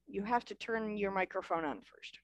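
whispered aside. Real, not acted. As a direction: whisper the reminder. Aside instruction to reader.

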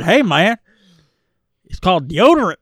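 mock the corny one-liner, punchy; mock character voice. Co-host repeating the heroine's punchline, mildly hammed up. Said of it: "She said".

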